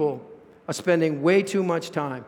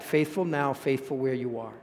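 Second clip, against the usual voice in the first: much softer, lower echo of "faithful"; hushed repetition; 5 semitones lower, 7 dB quieter than usual. Acted. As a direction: let "faithful where you are" sink to a near hush. Same phrase repeated, hushed.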